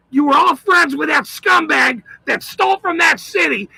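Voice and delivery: real, emphatic angry tirade; angry rant. Real, not acted. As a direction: hammer out each accusation in anger. Threatening rant at town officials.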